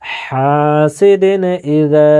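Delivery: হাসিদিন drawn out syllable by syllable; slow recitation. Shown as a demonstration. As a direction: read হাসিদিন slowly for students. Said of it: "জাহির করে তাড়াতাড়ি পড়তে হবে".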